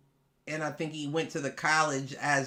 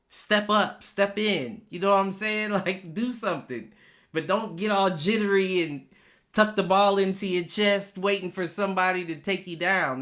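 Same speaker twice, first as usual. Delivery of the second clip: loud coaching; 5 semitones higher, 4 dB louder than usual. Retold or imitated. Coaching the quarterback as if present.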